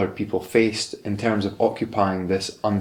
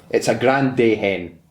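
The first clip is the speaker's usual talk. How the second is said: put-on Glasgow accent; slower than usual. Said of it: "I'll do the Glasgow one".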